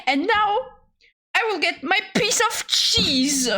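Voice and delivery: high, bright declaration; happy high call; excited announcement. Real, not acted. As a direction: announce the cheese like a prize. Announcing cheese grab.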